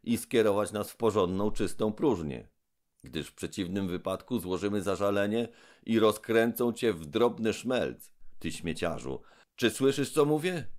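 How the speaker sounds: high, loud, scolding robot; indignant Trull. Acted. Trull scolds the giant mouth, shrill and loud. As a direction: berate the rubbish heap haughtily.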